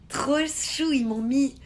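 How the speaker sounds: high, loud burst of delight. Real, not acted. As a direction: gush at good news. Delighted at news from viewer.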